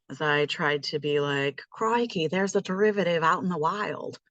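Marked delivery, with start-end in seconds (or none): 1.7-4.2 a lightly done, bad Australian accent; a half-hearted Steve Irwin-style Australian nature host; terrible Australian accent. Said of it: "that was a terrible Australian accent".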